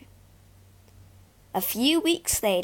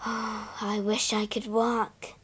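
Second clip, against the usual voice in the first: wistful sigh; 5 dB quieter, slower than usual. Acted. Clara sighs, longing to walk.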